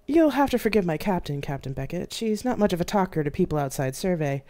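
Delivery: lightly voiced smooth male AI with a slight accent; a hint of an accent, easy and friendly; mild slight accent of a ship AI. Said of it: "said a smooth male voice with a slight accent".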